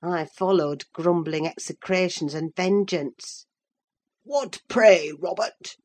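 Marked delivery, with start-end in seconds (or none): 4.2-5.8 hallooing. A narrator's reading. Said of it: "hallooed Linton from the entrance".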